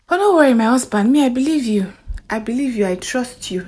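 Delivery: softening, fading comfort; reassuring wife. Acted. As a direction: soothe him gently. Wife soothing husband.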